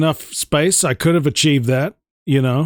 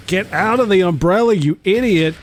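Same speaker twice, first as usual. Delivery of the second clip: angry yelling; 4 semitones higher than usual. Real, not acted. Yelling at teammate mid-fight.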